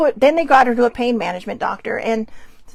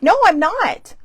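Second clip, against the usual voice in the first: retold anger; 5 semitones higher, 4 dB louder, slower than usual. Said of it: "I was angry".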